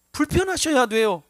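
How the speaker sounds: 불편하셔야 돼요 called out loud, falling firmly; forceful exhortation. Acted. Preacher urging the congregation, loud and forceful.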